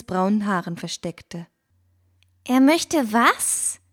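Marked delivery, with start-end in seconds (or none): 2.4-3.8 slow, high, stunned question; aghast. A narrator's reading. Fine stunned by the bird's news, slow and aghast. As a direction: draw it out in disbelief. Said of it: "rief diese entgeistert".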